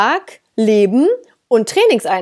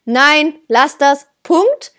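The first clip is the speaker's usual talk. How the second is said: firm correction; 2 semitones higher, much slower than usual. Shown as a demonstration. Trainer demonstrates the correction for a pushy puppy, firm short command. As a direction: raise your tone, short and firm. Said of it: "dass ihr euren Tonfall erhöht habt".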